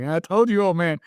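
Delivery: high, loud cocky jab; taunting trash talk. Retold or imitated. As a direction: gloat right at the old man. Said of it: "I'm just trash talking".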